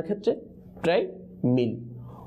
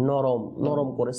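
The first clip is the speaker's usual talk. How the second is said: softly and slowly; 2 semitones lower, much slower than usual. Shown as a demonstration. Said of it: "কিভাবে উচ্চারণ করতে হবে?".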